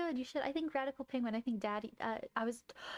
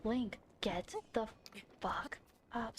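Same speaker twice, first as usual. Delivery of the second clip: slower, dropping to a whisper on the end; frustrated slow whisper; slow half-whispered repeat; 2 semitones lower, 6 dB quieter, slower than usual. Real, not acted. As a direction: drag it out then whisper the curse. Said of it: "I've got so aggressive there".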